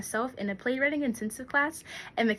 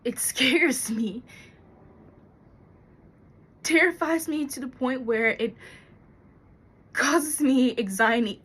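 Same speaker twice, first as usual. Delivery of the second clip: agitated, building in force; worked up, describing a terror; anxious confession; 3 dB louder than usual. Acted. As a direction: let the fear spill out, louder as it builds. Monologue: fear of storms causes anxiety.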